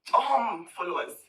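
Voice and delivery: "dumb" drawn out slowly and weighted; slow down and lean on "dumb"; stress on dumb. Shown as a demonstration. Insulting a rival's followers, slow with weight on "dumb". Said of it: "You know how I emphasize that word dumb".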